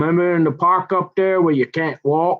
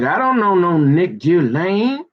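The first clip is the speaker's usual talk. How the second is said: slow, higher mimicked denial; imitating her; 4 semitones higher, slower than usual. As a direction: draw it out as her, rising at the end. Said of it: "And she's like".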